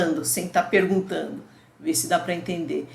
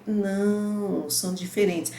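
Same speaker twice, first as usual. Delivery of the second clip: student correcting himself; slower than usual. Retold or imitated. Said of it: "a entonação de voz".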